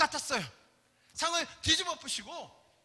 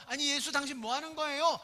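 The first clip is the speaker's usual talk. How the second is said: mildly indignant mock complaint; retold angry challenge; 2 semitones higher than usual. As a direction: challenge him with a touch of annoyance. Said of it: "화를 낸 거예요".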